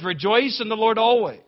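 loud, high proclamation of Paul's words; proclaimed quote. Real, not acted. Preacher voicing Paul to the congregation, loud and high. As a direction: call it out like the apostle.

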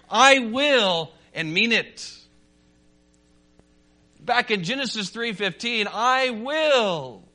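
ringing, declarative sermon delivery; emphatic preaching. Real, not acted. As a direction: preach it with conviction, landing each key word.

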